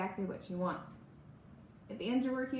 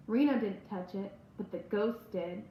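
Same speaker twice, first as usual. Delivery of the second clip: sinister little smile. Acted. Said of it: "in a sinister little smile".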